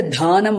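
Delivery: "dhanam" said dhaa-nam; long aspirated wrong take. Shown as a demonstration. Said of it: "you can't say dhanam also".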